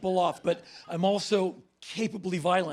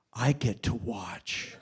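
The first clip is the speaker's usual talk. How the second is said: much lower, slow creepy imitation; a hint of a creepy woman; 9 semitones lower, 3 dB quieter, slower than usual. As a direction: drag it out low and sinister. Woman's creepy condition voiced.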